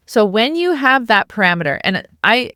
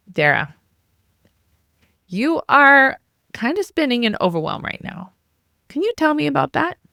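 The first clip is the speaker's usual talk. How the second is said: gentle self-talk; 7 semitones higher than usual. Shown as a demonstration. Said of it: "you put your hand on your heart and you say".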